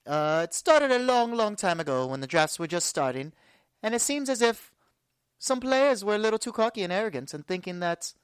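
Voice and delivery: a lightly put-on British accent, playfully pompous; mock British accent. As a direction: poke fun at cocky players in a jokey British accent. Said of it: "a British accent like I am right now".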